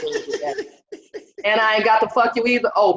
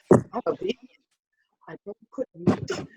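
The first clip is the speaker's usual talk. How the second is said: much higher, soft mock prissy man; prissy date; 5 semitones higher, 8 dB quieter than usual. Scene: mocking her vegan date at the sausage stand, high and prissy. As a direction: voice him dainty and fussy, pulled back.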